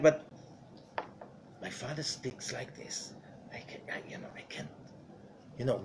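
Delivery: whispered, ashamed hush; hushed embarrassment. Retold or imitated. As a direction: hide it from the neighbors in a whisper. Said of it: "with a very low voice".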